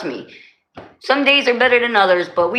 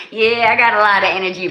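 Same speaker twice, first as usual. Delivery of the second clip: laughing; faster than usual. Real, not acted. Laughing reply about energy.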